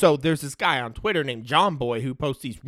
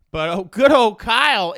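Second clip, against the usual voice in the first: mock fond exclaim; 7 semitones higher, 8 dB louder than usual. Real, not acted.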